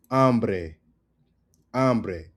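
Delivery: Hambre said ahm-breh; silent H. Shown as a demonstration. Teacher repeating the correct word, "Hambre" with silent H. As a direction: drop the H from "Hambre". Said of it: "which is not hambre".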